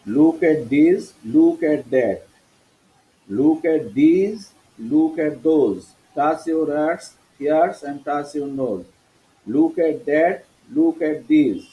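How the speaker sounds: "this, that, these, those" with th as a clear দ; teacher's demo, "these" and "those" starting with দ. Shown as a demonstration. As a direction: model "this" and "that" slowly with a d sound. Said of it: "টিএইচ এর উচ্চারণ সব দ হলো".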